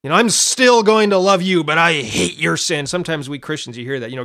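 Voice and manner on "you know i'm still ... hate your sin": mock condescending God. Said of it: "he doesn't say".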